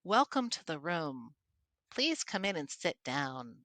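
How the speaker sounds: slow, lifeless host voice; dull flat welcome. Shown as a demonstration. Showing how not to greet a room, slow and dull. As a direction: drone like a bored host. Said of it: "No, I mean, you can't do that".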